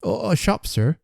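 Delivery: high eager exclamation; exclaiming. A narrator's reading. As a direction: burst out eagerly to explain. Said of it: "exclaimed Toby".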